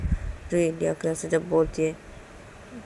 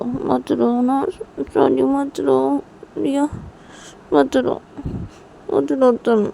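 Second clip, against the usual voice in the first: higher-pitched, coaxing apology; consoling mother; 5 semitones higher than usual. Acted. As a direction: soothe a crying child and beg her to stop. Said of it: "लिया को ऐसा हक कर लेती है". (मनाते हुए, दिलासा देती माँ)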